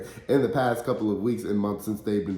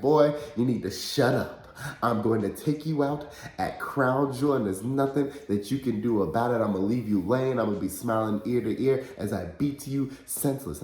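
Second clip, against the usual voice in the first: imitating angry Mansoor; 3 semitones higher than usual. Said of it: "he gets angry and frustrated".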